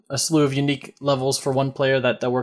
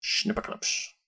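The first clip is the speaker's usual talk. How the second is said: whispered; 7 semitones higher, 10 dB quieter, slower than usual. Pretend. Whispered sign-off.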